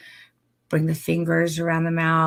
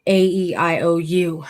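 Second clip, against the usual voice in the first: louder, sing-song vowels; flirty, bouncy vowels; playful vowels; 4 dB louder than usual. Shown as a demonstration. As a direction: play with each vowel, full of fun. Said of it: "watch this".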